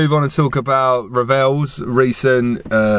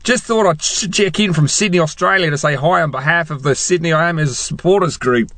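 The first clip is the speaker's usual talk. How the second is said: mock Australian accent, pitch up; hammed-up Australian reading of a fan email; 3 semitones higher than usual. Shown as a demonstration. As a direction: read it in a put-on Australian accent. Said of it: "shall I just reread that in Australian".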